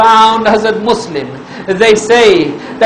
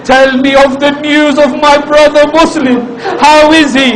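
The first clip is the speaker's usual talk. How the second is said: high, urgent plea for news; impassioned, worried appeal; anxious questioning; 4 semitones higher, faster than usual. Acted. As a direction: ask with mounting dread for a brother. Imam anxiously asks after his brother.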